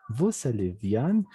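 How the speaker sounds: slow "vous allez bien", "bien" ending like "an". Shown as a demonstration. Teacher explains EN becomes AN, slow "bien" said "bian". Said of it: "Esta E N se vuelve A N".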